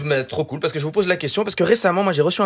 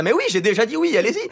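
mild exasperation; 7 semitones higher than usual. Retold or imitated. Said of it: "J'étais".

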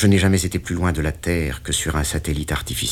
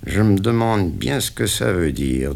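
pensive; 4 semitones higher than usual. Acted. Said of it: "d'un ton songeur".

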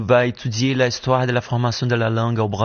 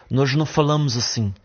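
imitation légère de l'accent portugais du Portugal, un peu rapide; accent portugais européen imité; faster than usual. Shown as a demonstration. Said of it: "parlent de cette manière". (accent portugais du Portugal, à peine appuyé)

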